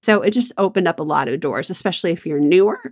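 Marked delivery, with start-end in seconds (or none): 1.7-2.8 voice cracking. Real, not acted. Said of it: "Whew, my voice cracked there".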